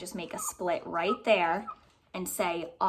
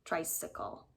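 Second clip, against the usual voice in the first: whispered check; 2 semitones lower, 8 dB quieter than usual. Shown as a demonstration. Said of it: "my last syllable".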